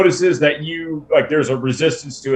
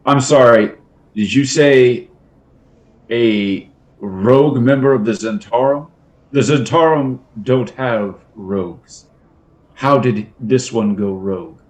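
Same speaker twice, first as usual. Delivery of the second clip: incredulous; 2 semitones lower, 3 dB louder than usual. Acted. NPC incredulous interruption.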